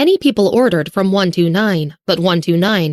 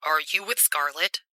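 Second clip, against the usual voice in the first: much softer, faint voice; 3 semitones lower, 12 dB quieter than usual. A narrator's reading. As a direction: barely voice the question. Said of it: "His voice was soft and faint".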